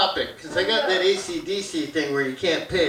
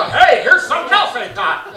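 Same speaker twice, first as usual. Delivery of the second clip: stoned excitement; 5 semitones higher than usual. Pretend. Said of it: "jump around and go".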